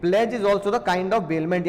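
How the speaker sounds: each word spaced out for students to copy; slow dictation. Shown as a demonstration. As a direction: slowly spell out the rule for the class. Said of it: "बोलो बात समझ में आई?".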